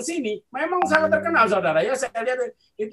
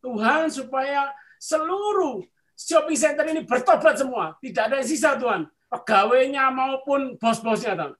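higher, pleading retold prayer; 4 semitones higher than usual. Preacher praying for a shopping center to repent, earnest petition. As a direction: re-enact an earnest petition to God. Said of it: "saya berdoa".

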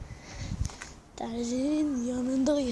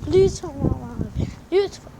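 pleading please, louder; kindly asking; 5 dB louder than usual. Real, not acted. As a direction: beg them nicely to subscribe. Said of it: "Nazikçe söylüyorum".

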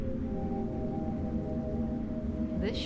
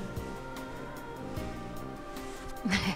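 soft teasing laugh; 3 semitones lower, 9 dB quieter than usual. Acted. Teasing him after a joke.

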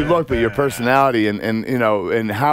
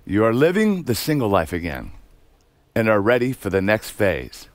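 poem recital; 4 semitones lower, 4 dB quieter than usual. Acted. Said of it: "All right, this is Kurt Angle".

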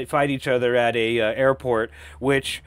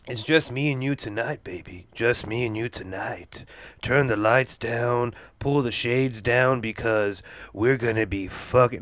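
lower, softer mock bedroom voice; mock seductive; 4 semitones lower, 4 dB quieter than usual. Host teases listeners alone tonight, mock sultry murmur. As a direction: play it like a joking late-night seduction. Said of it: "no, I'm just kidding".

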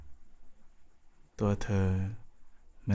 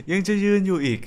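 exasperated surprise; 9 semitones higher than usual. Acted. Partner still standing.

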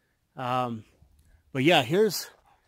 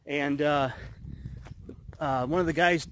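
breathless from the climb; winded, catching breath between phrases. Real, not acted. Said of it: "Sorry, I'm out of breath".

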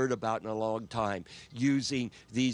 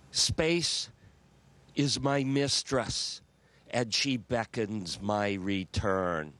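poem recital; 3 semitones lower, slower than usual. Real, not acted. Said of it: "the first line of a poem I wrote".

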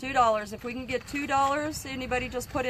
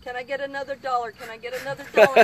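auctioneer voice; 3 dB louder, faster than usual. Pretend. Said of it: "Talk like an auctioneer, please".

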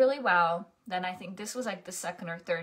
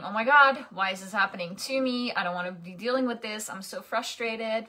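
a hint of exasperated complaining, starting louder on "Oh my God"; mock frustration; 3 dB louder, faster than usual. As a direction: play the frustrated self, half-hearted. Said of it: "stuffing it down and saying".

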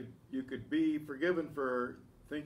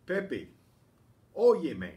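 loud call of óyeme, as if across a room; 5 semitones higher, 8 dB louder, slower than usual. Shown as a demonstration. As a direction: shout óyeme to get Pepe's attention. Calling out to Pepe.

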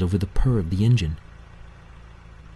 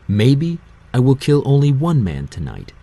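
menacing threat; 6 semitones higher, 5 dB louder than usual. A narrator's reading. Hades threatens captive.

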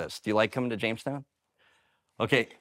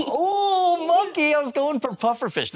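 high loud mock dismay; mock offended; 5 dB louder, slower than usual. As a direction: cry out in hammed-up hurt. Mock offended at monkey remark.

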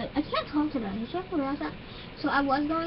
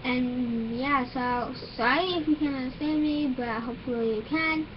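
talking through new braces; words slurred by braces. Real, not acted. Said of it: "my braces are literally, like, messing up my teeth".

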